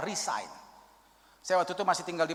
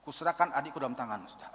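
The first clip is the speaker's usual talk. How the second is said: much softer and lower, tired sigh of a prayer; weary inner prayer; 6 semitones lower, 8 dB quieter, faster than usual. Retold or imitated. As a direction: pray it quietly, worn out. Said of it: "Saya dalam hati gini". (doa lelah dalam hati, pelan)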